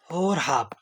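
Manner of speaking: voiceless, as if telling a secret; hushed whispered answer. Shown as a demonstration. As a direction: whisper the place name.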